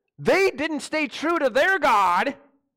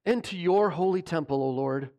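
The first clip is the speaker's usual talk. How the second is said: mock arrogance; 5 semitones lower than usual. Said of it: "as arrogant as can, say this".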